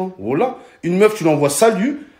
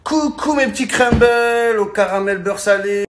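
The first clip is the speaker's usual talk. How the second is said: influencer parody; 4 semitones higher than usual. Pretend. Comic mocking influencers, a sugary hammed-up greeting. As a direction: play the fake cheerful influencer.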